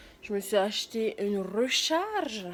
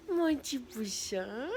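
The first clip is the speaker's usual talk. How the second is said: whispering over a crib; 2 semitones higher, 3 dB quieter, slower than usual. Acted. Baby talk to dog.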